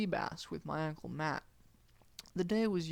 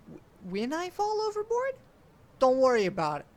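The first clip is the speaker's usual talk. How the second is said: high alarmed stammer; the kid panics about falling overboard; panicked; 8 semitones higher, 9 dB louder than usual. A narrator's reading. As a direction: squeak it in alarm. Kid panics, uncle dismisses.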